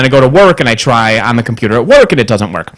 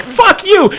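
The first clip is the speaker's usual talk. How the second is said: mock outburst. Outburst at the supervisor.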